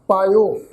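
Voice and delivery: ਪਾਇਓ as paa-i-o, middle letter a vowel; vowel glide. Shown as a demonstration. Teacher models the reading, ਪਾਇਓ with i-o glide. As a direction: glide ਪਾਇਓ through a short i into o. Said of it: "ਅਸੀਂ ਪਾਠ ਉਚਾਰਨ ਕਰਾਂਗੇ ਇਸ ਢੰਗ ਦੇ ਨਾਲ".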